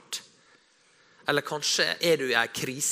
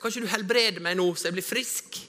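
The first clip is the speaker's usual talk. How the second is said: pleading for healing; 5 semitones higher, 3 dB louder than usual. Retold or imitated.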